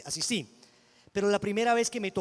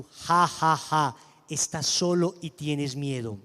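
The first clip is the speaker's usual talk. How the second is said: taunting spirit; 7 dB louder, much slower than usual. Retold or imitated. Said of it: "la voz tan diferente".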